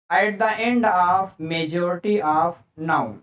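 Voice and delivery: very slow, word by word, with stress on end; slow dictation. Shown as a demonstration. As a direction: dictate the rule slowly to the class. Teacher dictating rule slowly.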